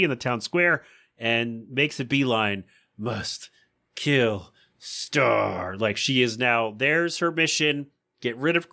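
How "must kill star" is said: low, monotone zombie drone; fixated killer voice; lightly voiced droning robot; mock robotic menace. Lois single-minded mission.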